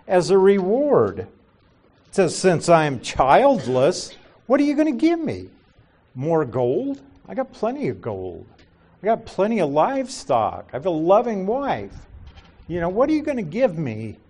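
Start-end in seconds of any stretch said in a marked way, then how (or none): 2.4-14.2 higher-pitched, quick, mildly bitter challenge; a touch of bitterness. Retold or imitated. Abram asking God what reward he could give, mildly bitter. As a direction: put it to God as a half-bitter complaint. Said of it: "It's kinda bitter almost".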